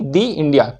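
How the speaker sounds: long ee in दी before India. Shown as a demonstration. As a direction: say दी India with "the" rhyming with "see". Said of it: "दी पढ़ेंगे".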